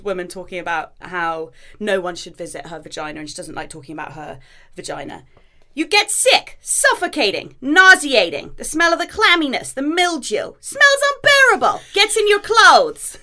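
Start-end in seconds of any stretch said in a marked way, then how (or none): 5.7-13.2 put-on much higher, louder, plummy Queen's English accent as an old lady. Reading an old woman's monologue to her co-host, Queen's accent. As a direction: do the Queen's accent, high and grand. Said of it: "I'm gonna attempt a Queen's accent here".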